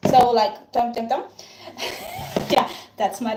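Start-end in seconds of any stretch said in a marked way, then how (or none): 0.7-1.2 soft rhythmic dum dum imitating a mixing noise; lightly voiced batter sounds; imitated mixing sound. Shown as a demonstration. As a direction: mimic the gloopy stirring sound. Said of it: "until it makes sounds like".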